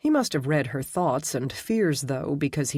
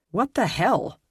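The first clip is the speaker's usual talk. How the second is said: put-on a light American accent, demanding; 5 semitones higher than usual. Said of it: "demanded in an American accent".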